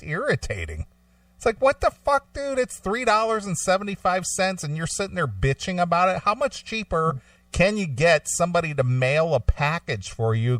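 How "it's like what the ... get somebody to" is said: much higher, worked-up rant; incredulous rant. Real, not acted. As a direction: let the disbelief boil over, speeding up at the end. Venting about cheap customer.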